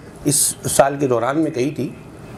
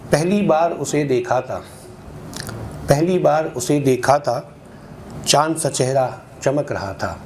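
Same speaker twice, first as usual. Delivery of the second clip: measured, rhythmic mushaira delivery; ghazal recitation. Acted. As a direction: recite in metre, lingering on each half-line. (ग़ज़ल का लयबद्ध पाठ)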